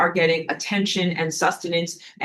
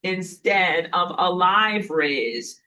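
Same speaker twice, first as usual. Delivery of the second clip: mock sun threat; 3 semitones higher, 5 dB louder than usual. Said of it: "the sun is like".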